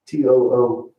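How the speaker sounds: spelling out T O O letter by letter; spelled out. Shown as a demonstration. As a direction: say T O O as three separate letters. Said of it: "That's bad English".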